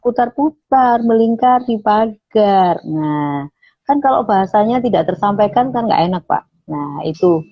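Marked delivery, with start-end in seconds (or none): 0.0-2.8 slow, trembling scared read; frightened. Shown as a demonstration. Teacher demonstrating the tongue twister in a frightened voice. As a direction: say it as if terrified of the snake.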